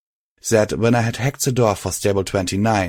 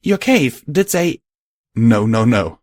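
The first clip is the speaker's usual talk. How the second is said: alarmed; 3 semitones higher, 5 dB louder than usual. Acted. Fear for the Gardens.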